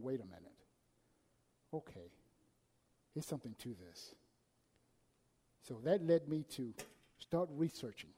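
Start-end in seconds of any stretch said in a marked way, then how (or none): 0.0-4.2 dawning realization. Retold or imitated. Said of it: "I started going".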